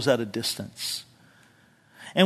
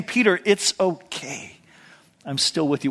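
tender reassurance. Retold or imitated. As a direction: comfort a friend gently. Jesus's tender look.

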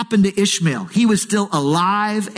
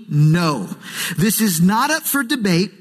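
God laying down the law, lightly acted; firm, final, no room for argument; emphatic refusal; 3 semitones higher than usual. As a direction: state each point emphatically as a verdict. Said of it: "God says emphatically".

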